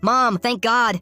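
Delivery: high, loud cry to mom; relieved yell. A narrator's reading. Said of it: "ran up to her and yelled".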